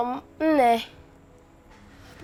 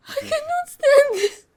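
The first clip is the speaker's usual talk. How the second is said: gasping sob; 9 semitones higher than usual. Acted. Child breaks down.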